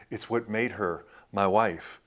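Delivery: hushed retold tribute; subdued retold remembrance. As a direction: say it quietly, as a widower would. Retells widower remembering his late wife.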